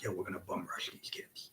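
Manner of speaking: hushed whisper to his partner; secret whisper. Retold or imitated. Telling his tag partner the plan, whispered. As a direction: whisper the plan so the opponents can't hear.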